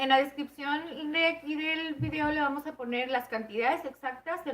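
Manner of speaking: eating while talking; talking through a mouthful; mouth full. Real, not acted. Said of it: "no puedo hablar muy bien y al mismo tiempo comer".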